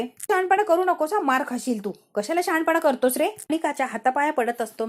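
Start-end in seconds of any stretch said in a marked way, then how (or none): 0.0-3.2 higher, scolding threat; angry threat. Acted. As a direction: warn him off sharply, pitched up. Anika threatens the pleading servant.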